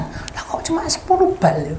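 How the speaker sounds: bisikan heran yang tertahan; heran berbisik. Retold or imitated. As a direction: bisikkan keheranannya pelan. (bisik heran meniru dia)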